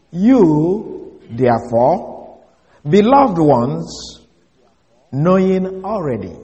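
slow, deliberate reading of the Greek. Shown as a demonstration. Preacher reading a literal Greek translation to the congregation, slow and deliberate. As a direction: read each word out slowly and carefully. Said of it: "Let me repeat that".

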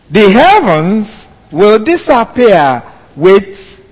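slow, emphatic scripture reading; Bibellesung. Acted. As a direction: read the verse solemnly, drawing out key words. Reads scripture aloud.

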